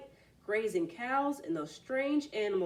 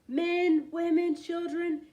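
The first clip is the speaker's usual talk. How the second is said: excited; 8 semitones higher, 5 dB louder, slower than usual. A narrator's reading. Frog listing wonders.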